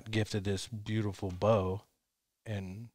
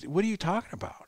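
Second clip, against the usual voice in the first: baffled; 8 semitones higher than usual. Retold or imitated. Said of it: "I'm like".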